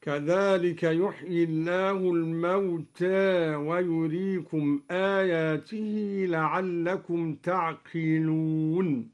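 الموتى ending tilted halfway to e; slow recitation leaning the alif of الموتى; taqlil on al-mawta. Shown as a demonstration. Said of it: "قلل الدوري ألف الموتى". (تقليل ألف الموتى)

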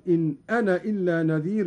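"أنا" said short as "ana" with no long aa; Hafs-like reading. Shown as a demonstration. Teacher shows dropping the alif in "أنا". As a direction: clip "أنا" short, quickly. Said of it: "وله الحذف أيضًا".

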